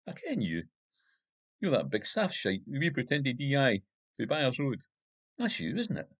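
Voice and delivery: a lightly voiced boozy Glasgow hardman; drunk gangster Monaghan. A narrator's reading. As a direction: lean in and taunt him, whisky-heavy.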